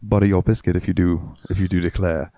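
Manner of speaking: English accent drifting into American South; English slipping into Southern. Shown as a demonstration. Suitor's English line going astray, Southern accent. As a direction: let the posh act slide into a Southern accent. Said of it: "that went really southern really fast".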